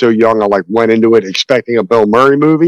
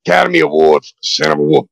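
Al Pacino impression; 3 semitones higher than usual. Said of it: "Pacino the entire time".

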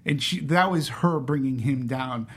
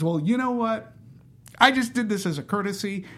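higher-pitched, lightly imitated defiance; mock standing your ground; digging in her heels; 4 semitones higher than usual. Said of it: "Alma dug in her heels".

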